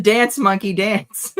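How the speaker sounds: loud, high jeering order; mock command. Co-host teasing the nervous greeter, mock commanding. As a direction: order the performer about, loudly. Listener jokes as a heckler.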